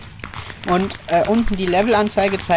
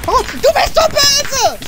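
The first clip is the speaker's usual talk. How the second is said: very high, drawn-out whine; mock outrage; 4 dB louder than usual. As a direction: squeal a playful accusation, slowly. Accuses player in the game.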